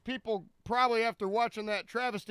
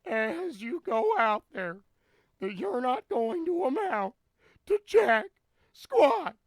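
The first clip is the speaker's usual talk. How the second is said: loud, booming Matt Foley motivational speaker; Chris Farley impression; 3 semitones higher, 3 dB louder than usual. Streamer doing Chris Farley's Matt Foley for chat, booming. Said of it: "that's what we're saying is Chris Farley".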